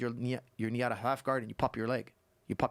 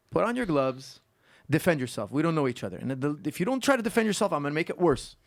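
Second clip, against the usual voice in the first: louder, firm coach's ultimatum; stern threat; 3 semitones higher, 5 dB louder than usual. Retold or imitated. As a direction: lay down the law to the student. Acts out warning a student in the cage.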